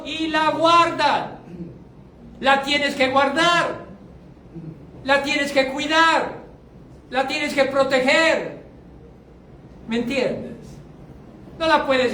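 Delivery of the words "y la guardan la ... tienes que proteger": deliberate sermon emphasis; slow emphatic preaching. Acted. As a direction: drive every verb home slowly.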